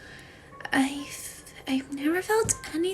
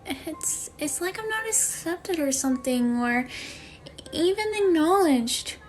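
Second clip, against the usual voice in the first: higher-pitched, wounded confiding; hurt new student; 4 semitones higher than usual. Acted. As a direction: confide in Mom like a left-out kid.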